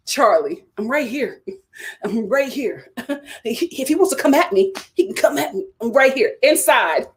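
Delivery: mock tough taunt; lightly voiced cocky Charlie; imitating Charlie taunting. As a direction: throw the dare with a chuckle. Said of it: "Charlie talking".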